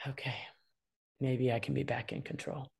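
breathy relieved whisper after a sigh; hushed, relieved kid regaining control. Pretend. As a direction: let it out and whisper yourself back to calm.

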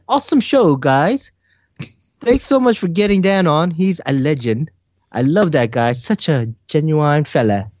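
put-on purposely awful English accent; hammed-up fake British accent; bad English accent. Reading a UK listener's comment, deliberately bad English accent. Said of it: "that is the worst English accent".

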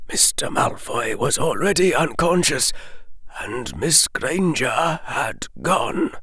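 put-on soft, breathy old headmaster; hushed elderly headmaster delivering bad news; hushed Dumbledore. A narrator's reading. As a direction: murmur it like a grave old wizard. Dumbledore voiced.

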